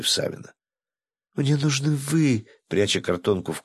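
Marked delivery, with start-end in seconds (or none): 1.3-2.5 slow, breathy purr. Acted. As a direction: breathe it out seductively. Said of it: "с придыханием произнесла Василиса".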